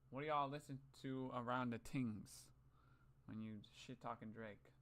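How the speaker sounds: slow, drawn-out mocking Toronto accent. Mocking a friend's Toronto accent while retelling his question. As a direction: lay the Toronto slang on thick, slowly. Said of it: "some stupid ass motherfucking Toronto accent".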